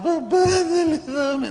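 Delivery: put-on high whiny child's begging; whining child. Preacher imitates a child begging in tears, high and whiny. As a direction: whine it like a crying kid. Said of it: "no me pidas con lágrimas".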